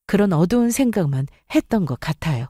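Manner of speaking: plain reading voice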